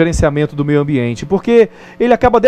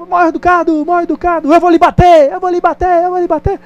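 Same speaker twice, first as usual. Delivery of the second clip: much higher repeated echo, fading at the end; 11 semitones higher than usual. Retold or imitated. The valley throws the boy's angry words back. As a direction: ring it back like a far echo. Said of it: "Aí ele".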